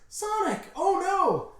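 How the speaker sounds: very high falsetto cry of alarm; hammed-up high-pitched distressed heroine; Blaze. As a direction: squeal in panic for a fallen friend. Blaze finds Sonic fallen.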